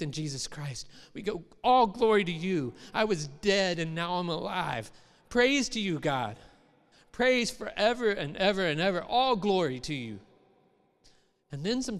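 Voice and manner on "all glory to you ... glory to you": louder, raised worship cry; new believer praising God, raised and loud; fervent praise. Retold or imitated.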